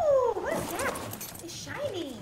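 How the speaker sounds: excited. Real, not acted. Spots something shiny.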